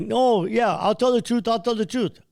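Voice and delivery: a high, tearful confession in imitation; imitating crying pilot. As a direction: play the big pilot caving in tears. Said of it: "he starts crying".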